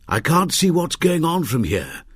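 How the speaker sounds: rasping voice; raspy. A narrator's reading. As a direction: rasp the line out. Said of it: "he rasped".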